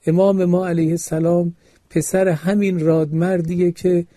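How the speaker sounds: stirring pulpit exhortation; sermon preaching. Acted. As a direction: preach it to the congregation with growing force.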